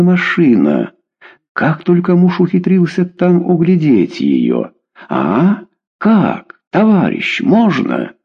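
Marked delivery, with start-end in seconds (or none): 5.1-8.1 high, clipped pleading words. A narrator's reading. Husband begs Denis in short words for the car. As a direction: beg in short bursts, pitched up. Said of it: "говорил теперь односложно и умоляюще".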